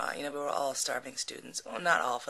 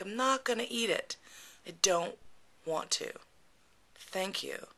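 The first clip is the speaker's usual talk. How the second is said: firm refusal; 5 semitones higher than usual. Retold or imitated. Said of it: "I turned on my, like".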